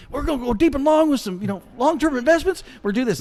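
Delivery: high, hammed-up Southern coach; Southern football coach. Audition as a Southern football coach, high Southern twang. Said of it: "Southern football coach".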